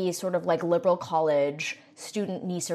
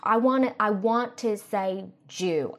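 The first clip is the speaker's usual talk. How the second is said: Republican aunt; 2 semitones higher than usual. Acted. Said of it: "Republican aunt".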